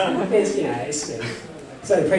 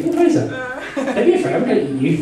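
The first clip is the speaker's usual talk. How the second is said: playful coaxing; 5 semitones higher than usual. Pretend. Game master playfully coaxes a shy player.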